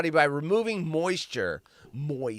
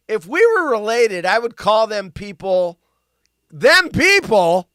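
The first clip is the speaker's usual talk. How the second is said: mock snide quote; 3 semitones higher, 8 dB louder than usual. Quoting online comment mockingly.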